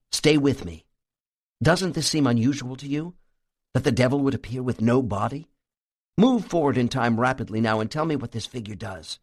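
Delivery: plain reading voice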